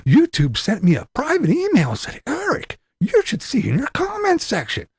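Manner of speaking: high, whiny, put-upon voice; mocking impression. Mocking the rival vlogger to viewers in a high whiny voice.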